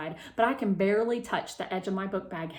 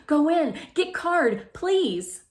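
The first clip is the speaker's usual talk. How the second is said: high, loud machine-like talker voice; 8 semitones higher, 6 dB louder, slower than usual. Acted. Melody's MediTalker asking Mom, high and robotic. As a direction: speak like a speech device.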